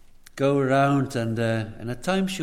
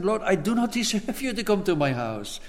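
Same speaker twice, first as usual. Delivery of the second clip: higher, earnest humble pleading; humble plea; 4 semitones higher than usual. Retold or imitated. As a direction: beg humbly, a little raised. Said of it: "He so clearly said".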